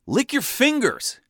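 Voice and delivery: high, slow called-up shout; yelled instruction. Retold or imitated. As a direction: call it up to him from below, drawn out. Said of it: "I yelled up at him".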